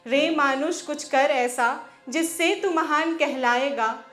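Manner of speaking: rhythmic, declaimed Hindi verse; poem recitation. Acted. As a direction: recite it as a rousing poem, pausing between lines.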